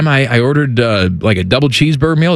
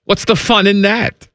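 put-on German accent.

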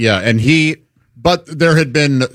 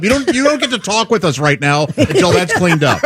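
higher-pitched opening, bossy retold reprimand; mock scolding; 5 semitones higher than usual. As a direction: lay down the law in mock indignation.

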